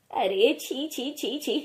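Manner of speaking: repeated disgusted tsk of revulsion. Acted. Mother-in-law tasting the bitter tea, disgusted. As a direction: spit it out in disgust.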